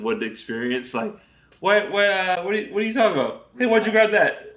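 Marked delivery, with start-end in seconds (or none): 1.6-4.5 higher, confused then urgent; mock rising alarm. Regular person watches things go wrong, mock alarm. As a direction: build from puzzled to mock panic.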